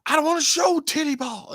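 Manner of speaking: very high squeaky mock protest; high-pitched imitation of a reluctant complainer; mock protesting whine. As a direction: whine it in a high comic falsetto. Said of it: "he was like".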